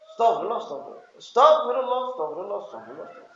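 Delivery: hurried istighfar trailing off into a mumble; perfunctory muttered repetition; no sense of pleading. Shown as a demonstration. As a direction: churn out the words absently. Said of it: "Kada ada kesan mengemis".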